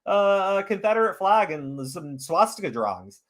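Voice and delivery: mocking eager agreement. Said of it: "They go".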